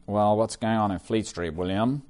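a light American accent, lightly put on; an American colleague asking, lightly. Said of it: "that was an American accent".

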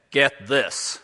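punchy mock-American accent; quoted in a put-on American accent. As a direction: imitate an American lawyer's emphatic accent. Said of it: "I hope I haven't offended you if you're American".

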